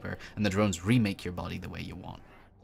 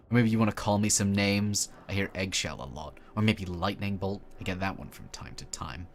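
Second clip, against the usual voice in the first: put-on bitter mutant boy. Mutant boy daring the stranger to mock him, lightly bitter. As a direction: throw the insults back at them.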